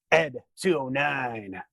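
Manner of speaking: slowly drawn-out name; dramatic introduction. Acted. Host introducing the robot scene, dramatic introduction. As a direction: announce it slowly, word by word.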